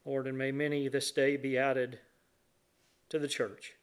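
reverent prayer with long pauses between phrases; public prayer. Real, not acted. Leads the congregation in prayer.

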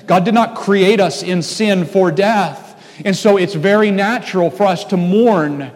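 rising preacher's fervour; preaching. Acted. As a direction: preach it with mounting conviction. Preaching on sin and death.

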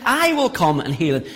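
"I" given the emphasis, then dropping softly; stress on I. Shown as a demonstration. Preacher quoting Jesus to his congregation, stress on "I". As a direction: lean on "I", let the rest fall away. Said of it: "the emphasis there is on the word".

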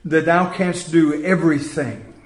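measured, solemn Bible reading; scripture reading. Acted. Preacher reading Job to the congregation, solemn.

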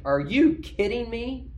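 high, loud, slow "are you kidding me"; guttural disbelief. Retold or imitated. Peter recoiling from God's command in disbelief, slow and loud. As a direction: Peter balks in horror at the unclean food. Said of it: "he has this kind of guttural reaction".

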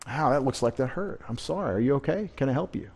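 tender, concerned murmur; gentle compassion. Retold or imitated. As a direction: speak to someone who just fell, gently. Voicing compassion to fallen person.

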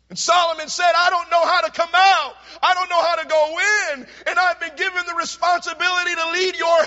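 loud, high sermon voice; fervent preaching, rising to a shouted prayer; full-force preaching. Acted. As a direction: thunder the story of Solomon.

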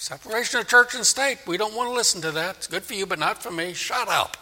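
dismissive refusal. Acted. Voicing people rejecting the gospel.

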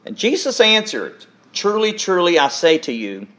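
measured, solemn Bible reading to the congregation; scripture reading. Acted. Pastor reads John chapter three to the church, solemn scripture reading. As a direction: read the passage as holy words, unhurried and deliberate.

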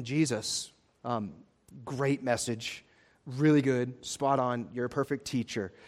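butter him up gently before the ask; flattering disciples. Retold or imitated.

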